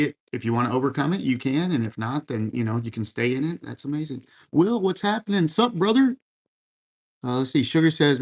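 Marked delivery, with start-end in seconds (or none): 4.5-6.2 high-pitched, lively hello; excited greeting. Real, not acted. Streamer hailing Will as he joins chat, excited greeting. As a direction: greet him way up high, rising at the end.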